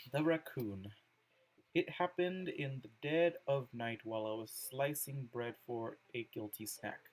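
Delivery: measured reading aloud with pauses between phrases; poem reading. Acted. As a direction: read the poem out carefully, phrase by phrase. Reads Yuri's poem aloud.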